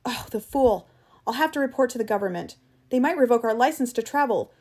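high, loud, agitated tirade; angry rant. Acted. Travis raging that Eccles left the path, angry rant. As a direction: rail in outrage, pitch and volume up. Furious guide rants about Eccles.

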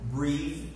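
"breathe" with a long ee vowel; careful pronunciation of breathe. Shown as a demonstration. Teacher contrasts two similar words for students, careful "breathe". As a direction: model "breathe" clearly, long ee. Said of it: "They have different pronunciations".

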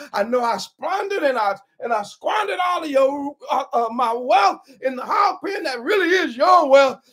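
final take of a humble confession to his father; begging to be taken back as a servant; rehearsed plea. Acted. Prodigal practises his final plea to his father, pleading. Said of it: "I'm gonna say".

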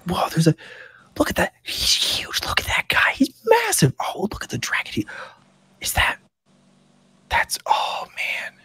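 put-on awed whispering kids; stage whisper. Stable boys gawk at the dragon, awed stage whisper. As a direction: gasp it out under your breath. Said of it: "that same kind of stage whisper".

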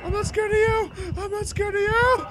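high, loud brave defiance; defiant yell. Real, not acted. Gamer yells defiance at the anemone-faced monster. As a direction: shout a shaky challenge.

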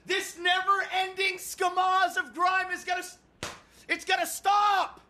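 high, fed-up outburst; exasperated rant. Real, not acted. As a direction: declare you have had enough. Rant about grime and job.

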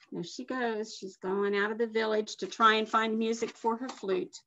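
soft aside to the listeners; quiet aside. Real, not acted. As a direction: drop out of the story to comment. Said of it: "aside to listeners".

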